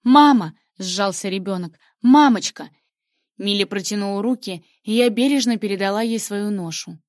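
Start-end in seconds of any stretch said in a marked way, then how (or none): 0.0-0.5 put-on loud, high child's cry for mama; scared little girl calling. A narrator's reading. Frightened child calls mother. 2.0-2.7 put-on loud, high child's cry for mommy; scared little girl calling. A narrator's reading. Frightened child calls mother.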